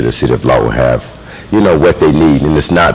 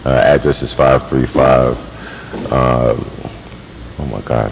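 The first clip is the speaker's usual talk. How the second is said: halting, nervous, trailing off softly; a flustered speaker losing the words; rushed nervous introduction; 4 dB quieter, slower than usual. Real, not acted. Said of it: "I get nervous in front of people".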